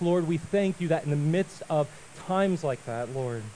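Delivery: reverent address with long pauses; prayer. Real, not acted. I'm gonna pray quickly.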